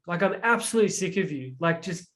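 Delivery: a hint of a fed-up parent; irritated parent. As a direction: push the child away, fed up. Voicing irritated parent to child.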